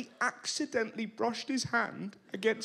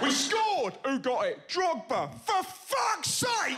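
football fans; 5 semitones higher, slower than usual. Retold or imitated. Mock lad shouting, then disgust.

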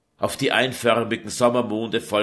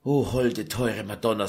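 comforting. Acted. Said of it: "sagten die Edelfrauen tröstend".

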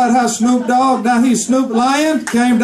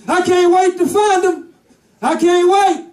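eager lion; 6 semitones higher than usual. Acted. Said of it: "And he would be like".

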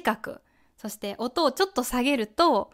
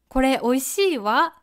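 美味しいわ with the わ lifted; rising feminine wa. Shown as a demonstration. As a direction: let わ rise gently at the end. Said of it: "女の人らしい和のアクセントは上がります".

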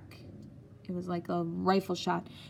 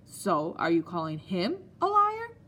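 slow, heavy, accusing question; menacing headmaster; 4 dB louder than usual. Acted. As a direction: lean on each word to corner the boy. Headmaster presses the frightened boy.

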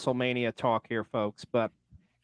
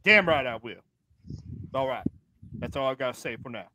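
Ron signing off; 4 semitones lower than usual. Acted. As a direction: grumble off, fading away. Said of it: "He sounded pretty angry".

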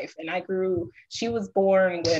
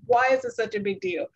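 put-on annoyed kid; 5 semitones higher than usual. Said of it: "She was so annoyed".

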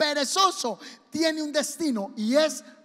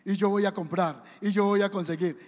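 imitando a un perezoso; 4 semitones lower than usual. Retold or imitated. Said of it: "Usted ha hablado con un perezoso".

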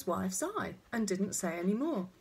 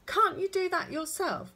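bad-tempered; 10 semitones higher, 5 dB louder than usual. A narrator's reading. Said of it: "disobedient and extremely bad-tempered".

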